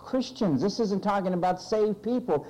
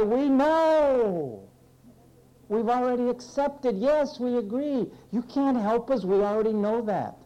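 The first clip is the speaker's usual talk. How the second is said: higher-pitched, insistent know-it-all reply; mock heavenly chorus; 5 semitones higher than usual. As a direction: play a crowd cutting off the preacher. Voicing everybody answering in heaven.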